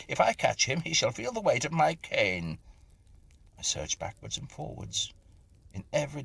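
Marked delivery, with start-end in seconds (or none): 0.1-2.6 loud, high angry threat. A narrator's reading. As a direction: threaten the hidden boy. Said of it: "I said angrily".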